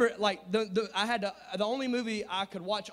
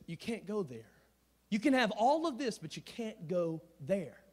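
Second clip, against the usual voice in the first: Mufasa; 3 dB quieter than usual. Retold or imitated. Mufasa warning Simba of dark area.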